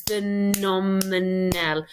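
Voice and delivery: "Phenomenal" said very slowly, syllable by syllable; broken into syllables. Shown as a demonstration. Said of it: "Break them into syllables".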